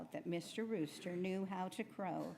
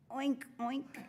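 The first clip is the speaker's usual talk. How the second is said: high-pitched pig oinks; pig oinking; 7 semitones higher, 4 dB louder than usual. A narrator's reading. Pig demonstrates crowing to the rooster, high oinking. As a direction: oink it high like a storybook pig. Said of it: "cleared his throat and said".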